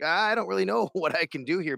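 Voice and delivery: laughing. Retold or imitated. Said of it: "we're always like".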